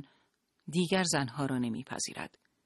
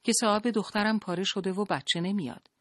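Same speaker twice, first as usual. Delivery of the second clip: raised, higher call over the crowd; mother-figure shouting for a nurse, urgent; 6 semitones higher, 3 dB louder than usual. A narrator's reading. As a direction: shout to be heard at the front desk. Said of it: "داد زد".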